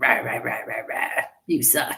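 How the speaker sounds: low, rough, growly grumble. Showing how the inner critic sounds: growly inner critic voice. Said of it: "it's like this growly tone".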